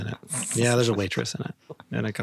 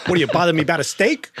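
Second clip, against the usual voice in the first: fast, higher irritated snap; annoyed; 4 semitones higher, 3 dB louder, much faster than usual. Pretend. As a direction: snap back impatiently. Acted quarrel.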